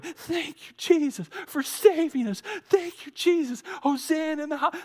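a hint of a tearful praising boy; yelling praise. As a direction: call it out with emotion. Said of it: "and I'm yelling".

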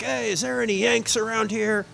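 a hint of a big Aussie looking for trouble; big Australian guy in a bar calls out for Yanks, mock Australian accent; Australian rugby bloke. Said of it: "big old dude, rugby player type".

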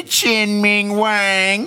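very slow, high mock Asian accent; put-on Asian accent. Repeating the card name for anybody, put-on Asian accent. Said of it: "you said it with an accent".

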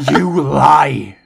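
a broken laugh, then a loud shout; anguished outburst. Acted. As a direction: hurl the denial back at her. King refuses to believe the news.

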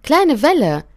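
big wave calling high and loud across the water. Acted. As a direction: call out to the little wave. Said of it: "rief sie ihr zu". (laut rufende große Welle)

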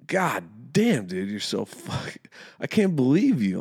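exasperated retold scolding; retold parting insult. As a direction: spit it at the coach on the way out.

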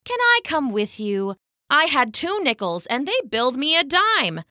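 lightly voiced fox with a grievance; aggrieved fox. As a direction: tell your complaint as a storybook fox. Fox tells his grievance.

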